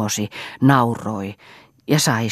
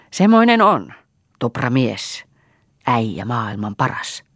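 boastful exclamation. Acted. Drunk host boasting loudly.

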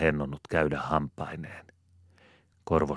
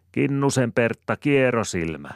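much higher, louder yelled taunt; shouted taunt; 8 semitones higher, 5 dB louder than usual. A narrator's reading. Sanelma shouting a taunt at Pertta, much higher. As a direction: yell it from a safe distance. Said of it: "huutaa tädille".

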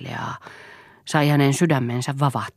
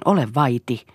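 mildly raised warning; warning call; 4 dB louder than usual. A narrator's reading. Mother hushing her son, warning. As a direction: warn him to stop, firmly. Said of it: "huusi Lea varoittaen".

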